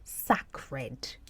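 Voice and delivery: "sacred" said SACK-red, short first vowel; "sacred" as two words, sack and red; old mispronunciation. Shown as a demonstration. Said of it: "I used to pronounce this word".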